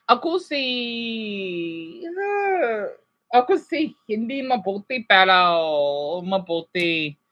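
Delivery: learner speaking Tagalog slowly; Tagalog phrase. Real, not acted. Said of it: "so I wanna speak my own".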